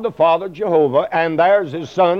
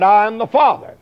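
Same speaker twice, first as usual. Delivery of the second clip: voice of God the Father; 3 semitones higher than usual. Retold or imitated. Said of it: "he was saying that".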